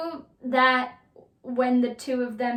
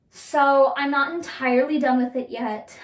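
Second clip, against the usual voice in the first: voice crack; 5 dB louder than usual. Real, not acted. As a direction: voice cracks mid-sentence. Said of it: "You hear my voice crack?".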